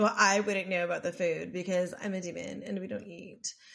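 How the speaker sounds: low, haughty, snooty, superior tone. Retelling a demon character's reply about food: imitating a snooty tone. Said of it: "saying it in, like, a snooty way".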